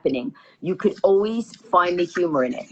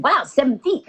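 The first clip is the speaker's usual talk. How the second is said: higher, impressed-sounding echo; mock amazement; 4 semitones higher than usual. Passenger hearing how small the submersible is, mock amazement. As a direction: echo it back with mock wonder. She echoes the answer, amazed.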